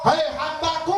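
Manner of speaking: voice of God. Acted. God answers the child.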